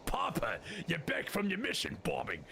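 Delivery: lightly voiced little girl greeting Papa; Marlene. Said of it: "We also did it as Marlene's voice".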